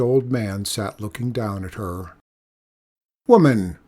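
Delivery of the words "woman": loud gruff call down the slope; stern old man calling out. Acted. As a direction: call out sharply to her from above. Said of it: "he called".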